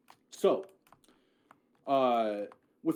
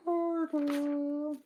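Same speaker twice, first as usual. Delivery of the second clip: much higher, drawn-out name; odd character voice; 12 semitones higher than usual. Acted. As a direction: say the name in a strange put-on voice. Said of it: "I don't know why I said it like that".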